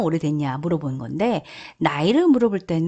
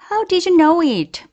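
lively model read; 9 semitones higher, 5 dB louder, much slower than usual. Shown as a demonstration. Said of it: "한번 복습해 봅시다".

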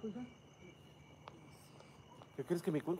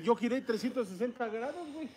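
laughing; 6 semitones higher than usual. Real, not acted. Laughing at spinning around.

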